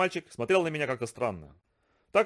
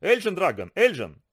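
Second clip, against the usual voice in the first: high excited cheer; joyful; 6 semitones higher, 4 dB louder than usual. Acted. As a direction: jump for joy shouting. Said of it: "весело запрыгал".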